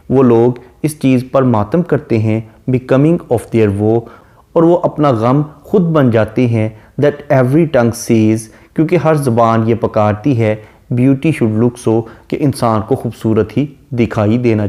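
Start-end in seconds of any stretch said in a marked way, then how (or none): 2.7-4.0 slow, measured recitation of the verse; reading the poem. Shown as a demonstration. Teacher reciting the sonnet line slowly to students. 7.0-8.5 slow, measured recitation of the verse; reading the poem. Shown as a demonstration. Teacher reciting the sonnet line slowly to students. 10.9-12.0 slow, measured recitation of the verse; reading the poem. Shown as a demonstration. Teacher reciting the sonnet line slowly to students.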